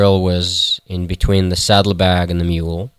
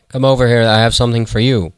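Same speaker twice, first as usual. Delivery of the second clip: higher-pitched beckoning; beckoning call; 4 semitones higher, faster than usual. Acted. Shepherd offering the lion something, beckoning call. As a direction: call him over, pitched up.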